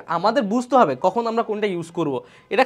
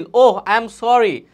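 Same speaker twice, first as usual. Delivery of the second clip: sympathetic model line; 3 semitones higher, 6 dB louder, slower than usual. Shown as a demonstration. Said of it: "সহানুভূতি প্রকাশ করেছে".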